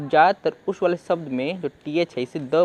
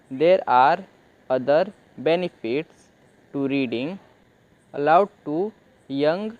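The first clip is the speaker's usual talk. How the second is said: slow reading aloud; much slower than usual. Shown as a demonstration. Teacher reading the English text slowly to students. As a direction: read word by word, slowly, with pauses. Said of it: "तो young को भी हम थोड़ा deeply पढ़ लेते हैं".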